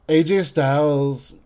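A J Styles slowed and stretched out oddly; the name A J Styles, slow and odd; said weirdly. Real, not acted. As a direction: drag out the name A J Styles in a strange way. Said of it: "I just said his name really weird".

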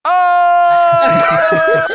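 high, loud falling scream; death cry. Retold or imitated. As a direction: yell as if falling off a cliff. The death scream as heard in the edit.

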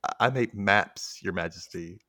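a hesitant, mildly stunned reply; wide-eyed stammer. Retold or imitated. Wide-eyed mapmaker answering his king, hesitant stammer. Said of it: "like, wide-eyed and just kind of".

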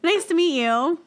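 loud, drawn-out mock introduction; Fiesta introducing herself. Imagining herself introduced by her nickname, mock introduction. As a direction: introduce yourself slowly and loudly as a joke. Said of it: "That'd be me, like, being like".

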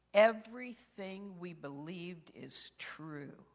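slow hushed whisper of the husband. Retold or imitated. Dead husband in a dream assures his wife, whispered. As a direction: breathe it out slowly, awed.

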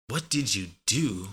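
"What did you do?" with "did" sounded and a J into "you"; careful "what did-joo do"; fuller careful form. Shown as a demonstration. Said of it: "when you say it like that".

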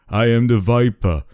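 put-on building menace, Austrian accent; creepy Viper voice. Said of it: "the same creepy voice said".

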